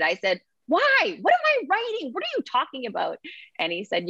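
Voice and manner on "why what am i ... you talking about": high, exasperated mom snapping back; a mom at her wits' end in a rushed morning; frustrated outburst. Retold or imitated. Harried mom snaps at her son over a late request, frustrated and high. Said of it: "And I was so frustrated".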